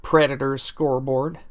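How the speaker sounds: a deliberately bad, slowed Southern twang on Nashville; terrible Southern accent. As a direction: ham up a lousy Southern accent, not meant to be good. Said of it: "That was a terrible accent".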